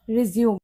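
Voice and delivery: रिज्यूम as "ri-ZYOOM", closed on m; verb pronunciation. Shown as a demonstration. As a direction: end रिज्यूम on m, no "may". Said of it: "वहां इसको बोलोगे आप". (रिज्यूम, दो हिस्सों में "रि-ज़्यूम")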